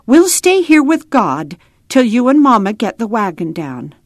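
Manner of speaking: a hint of a plucky little girl; Ada. A narrator's reading. Child tells Papa they will stay, lightly voiced resolve. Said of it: "she said".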